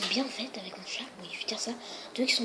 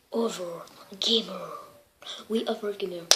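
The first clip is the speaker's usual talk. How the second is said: name said with an English accent, Over Gamer as /ovə ɡemə/; slower than usual. Shown as a demonstration. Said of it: "mon accent est très English". (accent anglais sur Over Gamer)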